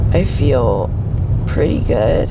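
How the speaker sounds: post-surgery nose, mouth breathing; breathing through mouth. Real, not acted. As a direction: talk with the nose blocked after surgery. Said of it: "so I am breathing through my mouth".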